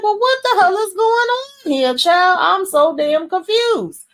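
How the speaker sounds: a shrill-free high squeak of disbelief; high-pitched confusion. Real, not acted. Recapping the episode to viewers, confused high squeal.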